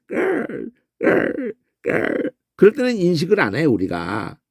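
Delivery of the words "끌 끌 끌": short, quiet crow rattles; 낮은 까마귀 그르렁 소리. Shown as a demonstration. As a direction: imitate a crow softly rattling in the throat. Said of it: "그르렁거릴 때". (까마귀가 조그맣게 그르렁거리는 소리)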